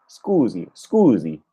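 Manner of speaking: scusi with a buzzing z; repeating Italian. Shown as a demonstration. Learner echoing the tape, Italian scusi. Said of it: "sound exactly like his".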